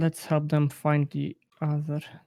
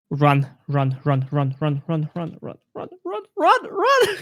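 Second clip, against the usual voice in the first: being chased; slower than usual. Real, not acted. Fleeing from attacker in game.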